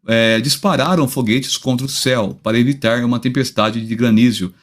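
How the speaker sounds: speaking carefully after a tooth was pulled; after tooth extraction. Real, not acted. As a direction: sore mouth after dental surgery, careful speech. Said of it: "a voz meio faiosa, porque eu tô com o dente meio operado".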